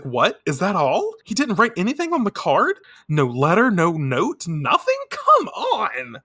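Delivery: high, incredulous mock protest; indignant disbelief. Heroine finds no letter with the card, indignant. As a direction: build from disbelief to exasperation.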